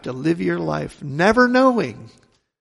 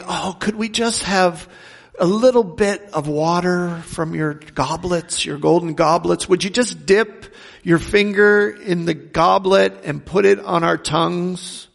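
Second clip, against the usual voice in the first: mildly raised, imploring mock plea; screaming children pleading. Condemned children begging parents at the table for water, mock pleading. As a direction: plead like a suffering child, without actually screaming. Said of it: "you could hear their screams saying".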